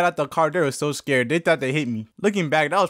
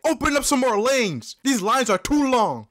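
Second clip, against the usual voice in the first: higher, slow mocking yell of an impatient lady; 8 semitones higher, slower than usual. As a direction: whine it out like an entitled shopper. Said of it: "started yelling".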